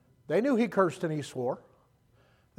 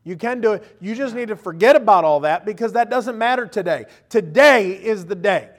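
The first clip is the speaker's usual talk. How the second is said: God encouraging; 3 semitones higher, 8 dB louder than usual. Retold or imitated. God telling the weary believer he can, loudly. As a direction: urge them on as God would. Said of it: "and God goes".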